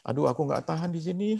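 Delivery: mock tearful complaint; istri menangis. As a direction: imitate a wife whining through tears. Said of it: "Istrinya lagi nangis". (menirukan istri yang menangis mengeluh)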